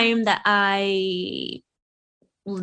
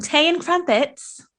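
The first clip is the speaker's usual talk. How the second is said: tea and crumpets in a mock British accent, slow and higher; British accent attempt; 7 semitones higher than usual. Shown as a demonstration. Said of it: "Did I say that right?".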